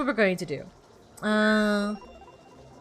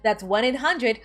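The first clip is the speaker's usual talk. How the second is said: repeated number; slower than usual. Shown as a demonstration. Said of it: "commercial voice".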